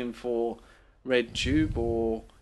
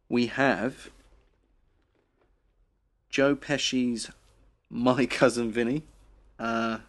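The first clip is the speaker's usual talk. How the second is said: radio host voice. Acted. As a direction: announce the prizes like a cheesy host. Mock radio host presenting prizes.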